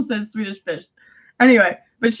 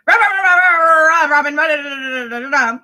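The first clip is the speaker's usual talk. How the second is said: imitating Mano. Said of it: "And Mano would be like".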